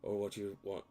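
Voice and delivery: put-on weird Irish accent. Ringing phone caller threatens the party, mock Irish accent. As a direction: growl it in a hammed-up Irish accent. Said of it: "in a weird Irish accent".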